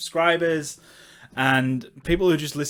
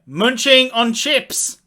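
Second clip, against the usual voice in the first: higher, louder, slow teasing; mock exasperated; 9 semitones higher, 7 dB louder, much slower than usual. Real, not acted. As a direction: tease him with slow emphasis. Teasing co-host mid-laugh.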